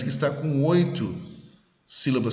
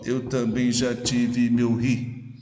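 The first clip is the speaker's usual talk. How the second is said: slow, "eu também já tive meu ri" beaten out syllable by syllable; syllable counting; slower than usual. Shown as a demonstration. Teacher showing students the eight syllables, slow syllable-by-syllable scansion of "eu também já tive meu ri". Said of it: "Então, com oito sílabas".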